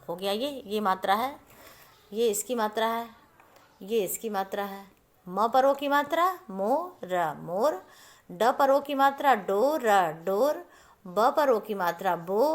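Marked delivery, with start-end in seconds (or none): 5.3-7.3 put-on मोर sounded out slowly for kids; slow spelling out. Shown as a demonstration. Teacher spelling words for children. (बच्चों के लिए धीरे धीरे शब्द बनाते हुए)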